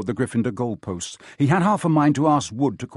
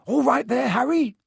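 high, raised yell to a teammate; yelled call; 10 semitones higher, 4 dB louder than usual. A narrator's reading. Teammate checking on Harry in mid-game, yelling. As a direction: call out high over the distance. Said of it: "he had time to yell".

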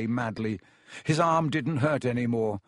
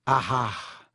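vague. A narrator's reading. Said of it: "he said vaguely".

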